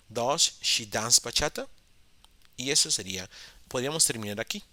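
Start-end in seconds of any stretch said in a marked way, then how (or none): 0.1-1.7 lento, subiendo en bachata; Does she dance bachata, lento y claro, con la voz que sube al final; modelo de pregunta. Shown as a demonstration. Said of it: "el auxiliar va conjugado como does". (pregunta modelo, lenta y ascendente)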